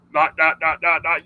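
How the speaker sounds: flat robot-like monotone, dot by dot. Shown as a demonstration. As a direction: chop it up like a robot reading a script. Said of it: "it sounds like a robot".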